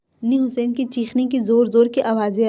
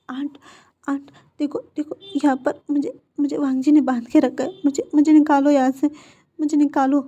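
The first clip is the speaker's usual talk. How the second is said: frightened pleading; 5 semitones higher than usual. Acted. Captive begs aunt to free him.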